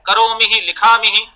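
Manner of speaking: करोमि and लिखामि with 'hi' echoed on the end; needless visarga. Shown as a demonstration. Teacher mocking scholars' fault, extra visarga on लिखामि. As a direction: add a breathy 'hi' after करोमि and लिखामि. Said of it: "अनावश्यक रूप से विसर्ग का उच्चारण".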